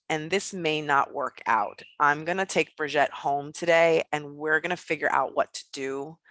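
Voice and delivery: a calm dad closing the matter with the nun; calm and resolved. Retold or imitated. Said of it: "my father just calmly said".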